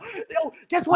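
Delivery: high put-on Indian accent with a laugh; laughing through a fake Indian accent. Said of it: "don't use your Indian accent".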